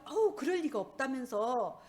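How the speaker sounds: lightly voiced owner brushing off the complaint; a hint of a defensive shop owner; restaurant owner's denial.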